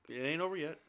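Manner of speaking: a muted mock echo; hint of a put-on voice. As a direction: repeat it in a lightly voiced different character. Repeated rallying line.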